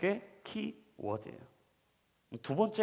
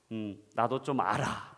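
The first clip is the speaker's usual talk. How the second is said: put-on smug child; 6 semitones lower, slower than usual. Son answers smugly.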